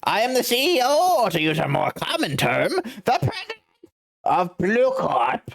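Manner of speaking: lofty, amused rich man; pompous CEO voice. Acted. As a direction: look down on the lawyer with a chuckle. Red White boasting.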